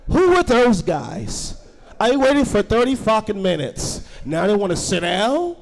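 slow, indignant complaint from the line; waiting customer grumbles at the two dudes, indignant; annoyed customer. Acted. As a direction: play the fed-up customer who waited.

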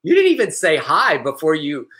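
incredulous mock scolding, rising on the questions; lightly hammed-up offended lecture; mock indignant scolding. Host scolding a stranger who sent an unwanted video, mock indignant.

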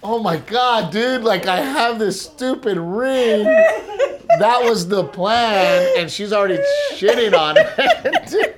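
high, laughing panic over the ring; panicked excitement. Retold or imitated. Telling his wife about the ring plan, laughing alarm. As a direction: squeal it out, half laughing in dismay. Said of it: "I'm like".

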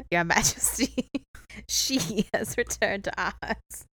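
giggly, slow, hammed-up rock voice; rock face impression. Rock reporting to its king, hammed-up slow voice. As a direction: drag it out solemnly while fighting laughter. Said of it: "I'm trying to do an impression".

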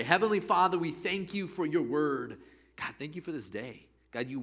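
earnest prayer to God. Acted. Opening prayer.

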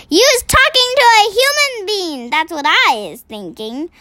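high booming giant voice. A narrator's reading. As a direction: boom like a suspicious giant. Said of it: "he boomed".

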